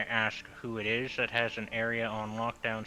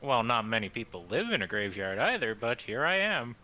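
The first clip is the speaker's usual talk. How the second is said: lightly drawled southern voice; southern accent. Acted. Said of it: "Why is Aesir suddenly southern?".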